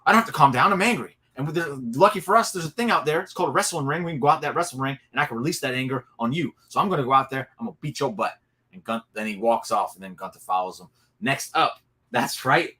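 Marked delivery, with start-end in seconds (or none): 0.1-8.3 mock angry threat. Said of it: "Kevin Owens is like".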